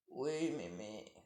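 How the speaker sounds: low, soft, slow sly wolf; wolf pretending to obey; wolf faking sweetness. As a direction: purr it like a cunning wolf.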